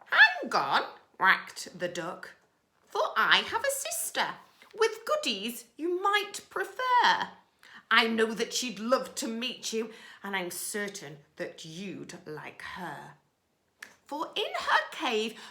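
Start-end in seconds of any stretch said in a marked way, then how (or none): 0.1-0.8 high, loud duck cry; a squawking duck's plea; high call. Acted. Duck calls out to rat. 2.9-15.4 high, loud coaxing duck voice; a scheming little duck luring the rat; sly duck. Acted.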